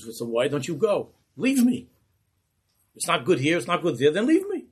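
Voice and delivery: high, loud angry shout; furious rebbe yelling leave me; screaming. Acted. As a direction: roar him away in fury. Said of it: "he starts to scream at Yitzchak".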